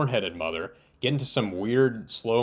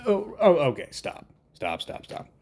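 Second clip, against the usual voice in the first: incredulous reaction; 7 semitones higher than usual. Real, not acted. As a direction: caught off guard by a bad line. Reacting to a cringe line.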